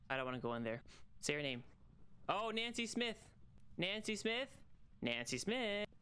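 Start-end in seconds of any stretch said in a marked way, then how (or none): 2.3-5.9 higher, coaxing call to the ghost; Oh Nancy Smith, lilted up high; singsong call. Acted. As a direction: call her name in a lilt. Calling the ghost's name.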